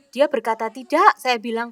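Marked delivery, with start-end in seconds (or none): 0.7-1.1 high, loud defiant no. Retold or imitated. Son refusing his mother, loud defiant shout. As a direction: shout the no like a stubborn boy.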